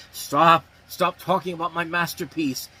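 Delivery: loud ghostly protest. Retold or imitated. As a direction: shout like an angry ghost. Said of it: "It's the spirit of Noah Marshall".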